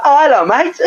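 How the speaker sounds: put-on chirpy Polish-accented hello, lifted high; high mock Polish accent greeting; Polish geezer. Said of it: "It's like Polish geezer".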